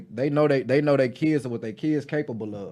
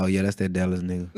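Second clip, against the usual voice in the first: laughing classmates; 7 semitones lower, 3 dB quieter, faster than usual. Retold or imitated. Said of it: "they'd be like".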